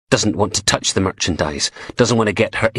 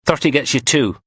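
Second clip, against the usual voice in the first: higher, cocky dealer quoting a price; Sparks haggling; 7 semitones higher than usual. A narrator's reading. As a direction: stress on "Thirty", cocky and sly. Sparks quotes his price to Blondie.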